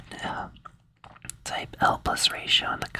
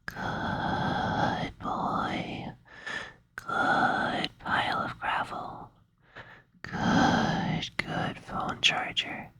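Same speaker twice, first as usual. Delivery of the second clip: slow, drawn-out ASMR trigger whisper; slow tingle whisper; much slower than usual. Shown as a demonstration. Whispering slow good-boy triggers to the sleepy listener. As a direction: linger on every good for the tingles. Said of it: "that's really tingly".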